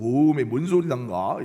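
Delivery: mock Jeolla accent, slow; Jeolla dialect. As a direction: Peter dodging in a put-on Jeolla accent. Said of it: "갑자기 전라도 말 써서". (느릿한 전라도 사투리 흉내)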